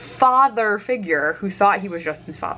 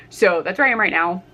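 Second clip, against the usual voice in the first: ordinary delivery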